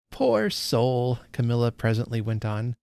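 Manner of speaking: reads the passage aloud, lightly voicing Estella; unhurried storytelling read; story reading. A narrator's reading. Host reading Dickens to her book club, story narration.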